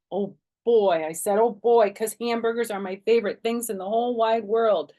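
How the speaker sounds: high loud squeal of joy; overjoyed about hamburgers; delighted. Acted.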